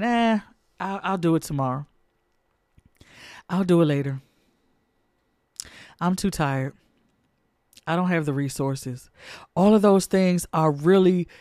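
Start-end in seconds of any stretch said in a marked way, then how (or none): 0.0-9.1 softer, offhand mock excuses; lazy excuses. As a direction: play the procrastinator. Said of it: "you're still saying".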